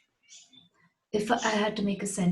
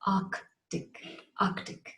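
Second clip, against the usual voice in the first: whispered word; 5 dB quieter, much slower than usual. Shown as a demonstration. Teacher repeats word softly.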